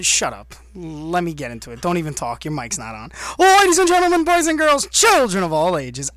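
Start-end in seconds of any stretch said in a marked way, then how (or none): 3.4-6.1 high, loud big-top announcer call; ringmaster. Pretend. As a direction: welcome the crowd like a ringmaster. Circus-style show introduction.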